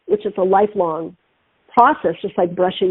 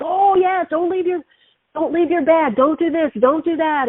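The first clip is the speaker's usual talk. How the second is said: higher, sing-through list of cautions; imitated warning friends; 7 semitones higher than usual. Paris friends warning about thieves, imitated cautioning. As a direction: rattle off well-worn warnings in a raised voice.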